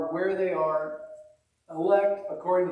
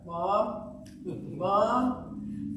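rising worried calls; 4 semitones higher than usual. Retold or imitated. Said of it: "my voice got higher".

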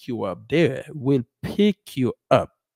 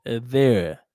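slow model sentence; slower than usual. Shown as a demonstration. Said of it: "Yes, the bus will take you".

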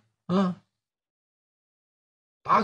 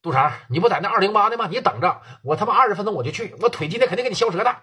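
higher, fast furious tirade down the phone; angry rant; 4 semitones higher than usual. Acted. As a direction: yell threats over the phone. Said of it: "宋启航越想越憋气".

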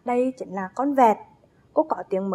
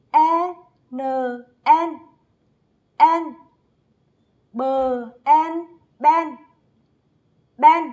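bright, louder classroom chant; choral spelling; 3 semitones higher, 3 dB louder, much slower than usual. Shown as a demonstration. Teacher and class spell the rhyme and word together, chanting. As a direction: beat out each syllable for the class. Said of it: "cùng nhau đánh vần và đọc trơn lại".

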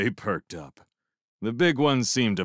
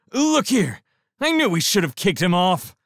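high, loud grumble; 11 semitones higher, 6 dB louder than usual. A narrator's reading. Shrimp sees the guards.

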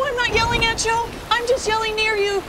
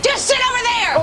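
yelling; 5 semitones higher than usual. Acted. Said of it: "you're yelling again".

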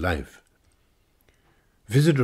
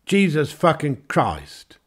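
shocked oath; 9 semitones higher, 3 dB louder, slower than usual. Acted. Englishman shocked at biscuits.

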